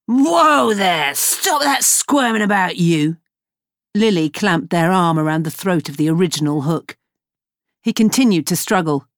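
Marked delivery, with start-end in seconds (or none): 0.1-3.2 a rough sailor's rebuke, a bit high; gruff sailor restraining. Acted. Lily restraining struggling Hook, gruff sailor rebuke. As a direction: hold him still, gruffly.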